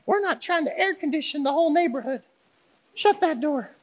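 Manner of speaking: high-pitched mock mom scolding. Pastor mimics mom scolding about the open door, high mock voice. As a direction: squeak it out like a fussy mom. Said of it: "She says something like".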